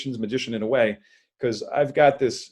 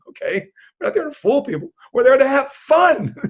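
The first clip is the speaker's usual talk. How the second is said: emphatic; 10 semitones higher, 6 dB louder than usual. Real, not acted. Insisting on his party philosophy.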